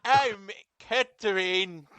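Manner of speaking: slow hammed-up British accent; drawn-out mock British introduction. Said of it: "Catherine has a British accent".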